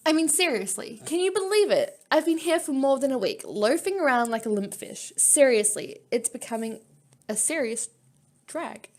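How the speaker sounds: lightly voiced bored companion complaining; a hint of a restless heroine fed up; game character voice. Player reading a bored companion's complaint, lightly voiced. Reads character dialogue aloud.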